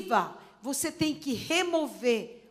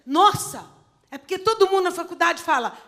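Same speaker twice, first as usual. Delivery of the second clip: much higher, quick denial in a daughter's voice; protesting daughter; 6 semitones higher, 5 dB louder, faster than usual. Retold or imitated. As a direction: brush it off like a surprised young girl. Daughter explains, retold.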